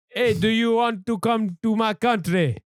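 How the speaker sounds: slow, inviting foreigner voice in a light put-on; a hint of a friendly European host; mock European. Host inviting friends to his country, lightly voiced, slow. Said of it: "the speaker's impression of Europeans in general".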